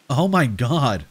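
mildly alarmed outcry; a touch of shock in a cry; cried out. Acted. Narrator cries out on seeing the mutilated person, mildly alarmed. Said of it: "I cried".

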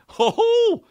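high, hooting mock laugh; imitated buddy laugh. Showing how the old roommate laughed, high mock hoot. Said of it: "He would laugh like that".

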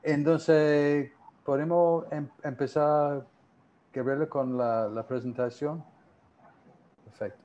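Spanish with a gringo accent; English speaker's accent in Spanish; American accent Spanish. Real, not acted. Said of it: "sigo hablando como gringo".

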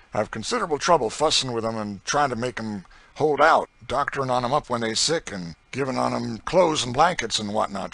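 loud, swaggering slave driver; coarse boasting planter. Acted. Planter bragging to a stranger about his system, loud and swaggering. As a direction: brag it out loud and hard.

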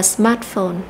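"smartphone" stressed on "smart"; first-syllable stress. Shown as a demonstration. Teacher shows how the noun is read, first-syllable stress. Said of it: "trọng âm rơi vào âm thứ nhất".

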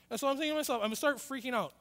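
ordinary talk

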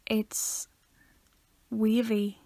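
hushed, airy, secretive; whispering. Acted. Dramatic whispered pronouncement.

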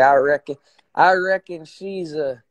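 drawling mock-country Texan accent; playful Texas-style twang. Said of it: "that's like a Texas accent".

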